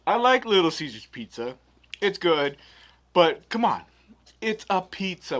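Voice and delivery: loud, worked-up food review rant; excited rant. Pretend. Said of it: "play Oz".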